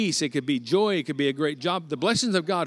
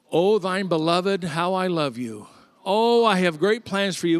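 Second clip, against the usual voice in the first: slow, louder, solemn proclaiming; grand blessing; 3 semitones higher, 4 dB louder than usual. Acted. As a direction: bestow it like an old prophet. Balaam pronounces grand blessing.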